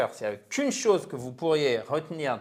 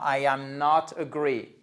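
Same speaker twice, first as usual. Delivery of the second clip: slow French-accented English; caricatured French accent. Shown as a demonstration. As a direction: spell out the mistake in a French accent, slowly. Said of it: "mon accent français". (accent français caricatural, lentement)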